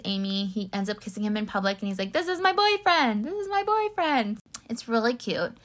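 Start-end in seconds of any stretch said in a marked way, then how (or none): 2.1-4.4 high-pitched mock proud declaration; gushing announcement. Acting out Doug showing off Jack in public, gushing. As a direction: imitate someone gleefully announcing it to everyone, pitched way up.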